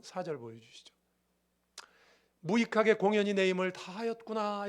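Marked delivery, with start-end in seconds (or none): 2.4-4.7 mildly acted lament; a touch of despair, drawing out the end; understated sigh of wasted effort. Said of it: "이렇게 한탄하시다가".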